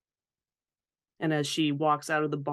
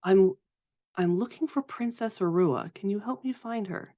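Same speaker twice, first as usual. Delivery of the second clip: higher-pitched earnest ask; lilting, pitched-up query; playful formal request; 5 semitones higher than usual. Acted. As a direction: make a game of asking for help. Playing along with child's game.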